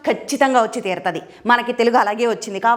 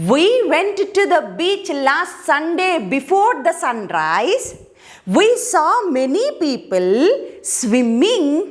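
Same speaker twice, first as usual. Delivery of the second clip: very slow, deliberate reading of each English phrase; slow model reading; much slower than usual. Shown as a demonstration. Teacher to Telugu students, slow clear model reading. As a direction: read it out word by word for learners to copy.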